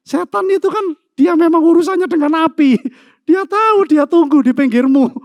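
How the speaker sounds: high, loud preaching about Satan; fiery emphasis. Real, not acted. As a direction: rise up and push it hard. Preacher describing the devil. (khotbah bersemangat, tinggi dan keras)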